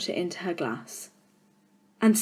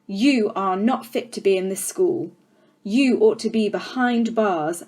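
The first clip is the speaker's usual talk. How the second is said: loom over the class, mildly menacing; a hint of a contemptuous headmistress; stern headmistress. Trunchbull rants at Matilda.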